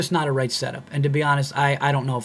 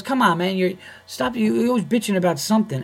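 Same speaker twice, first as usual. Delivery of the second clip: higher-pitched imitation of someone griping; irritated griping; 7 semitones higher than usual. Club employee griping at the comedian, irritated. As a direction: mimic a fed-up employee.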